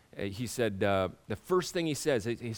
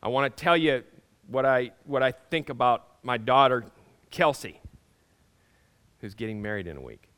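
louder, calling out to a crowd; announcing to everybody; 2 semitones higher, 6 dB louder than usual. Retold or imitated. Father announcing love for daughter Kelsey to everyone, loud. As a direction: proclaim it to the whole room. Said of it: "decide to say to everybody".

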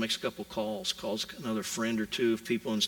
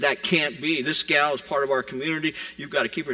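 insistent protest; 3 semitones higher, 5 dB louder than usual. Retold or imitated. Denny argues for her job.

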